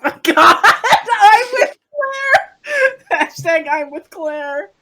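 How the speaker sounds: laughing so hard it squeaks. Real, not acted. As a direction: crack up mid-sentence. Cracking up over vote.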